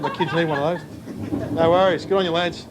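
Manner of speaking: ordinary delivery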